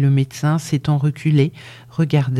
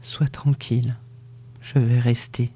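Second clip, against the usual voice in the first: softer, lower murmur of reassurance; quiet promise whispered to his dying lover; 3 semitones lower, 6 dB quieter than usual. Acted. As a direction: hush her gently, low and soft. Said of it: "Il murmura".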